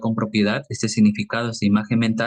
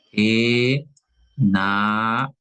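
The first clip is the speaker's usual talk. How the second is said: slowly stretched; much slower than usual. Shown as a demonstration. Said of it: "en el caso de enamorado".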